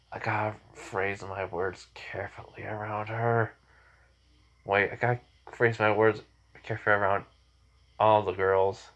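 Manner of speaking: thinking to himself. Acted. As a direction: say it softly, as a private thought. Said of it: "thinking to himself".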